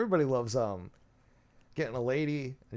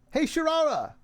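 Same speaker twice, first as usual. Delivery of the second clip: sudden yell; 13 semitones higher than usual. Retold or imitated. Streamer mimics Spooky yelling to wake a sleepy Sharara, sudden high yell. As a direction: yell her name to jolt her awake. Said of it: "he just yelled and woke her up".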